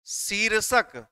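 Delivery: slow, word by word; slow dictation. Shown as a demonstration. Teacher dictating notes to the class, slow and spaced. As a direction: dictate slowly so the students can write along. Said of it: "आप note करते हुए चलिए, लिखिए".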